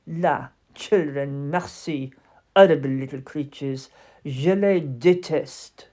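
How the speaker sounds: lightly French, scornful; disdainful. Acted. French doll scorns children.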